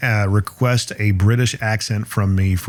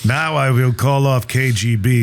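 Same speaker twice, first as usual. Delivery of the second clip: slow stage-Russian threat; deliberate mock Russian; Russian accent; slower than usual. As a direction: menace them in a comic Russian accent. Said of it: "try to do a Russian accent".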